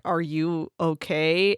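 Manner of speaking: slow, gently concerned question. Retold or imitated. Jade checking on tortured Double H, mildly concerned. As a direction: draw it out with mild concern. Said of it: "she's, like, concerned".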